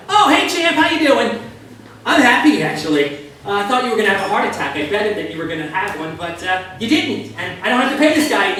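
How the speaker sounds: a gleeful gunman chatting to the survivor, high and bright in volume; cheery hitman. Retold or imitated. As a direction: play the gunman breezily upbeat, high and loud. Cheerful killer after shooting.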